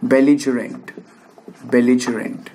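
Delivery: belligerent twice, j-sound for the g, pause between; pronunciation demo. Shown as a demonstration. Teacher writes out how belligerent sounds, pronunciation demo. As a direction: repeat belligerent as a model, each falling at the end. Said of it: "मैं pronunciation का लिख देता हूँ".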